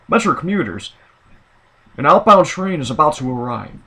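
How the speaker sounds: lightly imitated transit announcer; a hint of a recorded platform announcement; male train announcer. Imitating the Metra guy's good voice, lightly voiced announcer. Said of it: "and his voice is".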